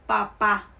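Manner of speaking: papá with the final á stressed; stress on second syllable. Shown as a demonstration. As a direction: land on the last syllable of papá. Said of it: "yo estoy hablando desde la acentuación".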